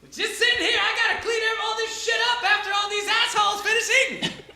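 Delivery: Dale the peasant. Acted. Peasant Dale introduces himself, high and chill. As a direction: shrug it off easily. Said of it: "he's like".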